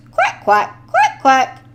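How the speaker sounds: giggling trucks. A narrator's reading. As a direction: tease him in a singsong chant. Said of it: "they giggled".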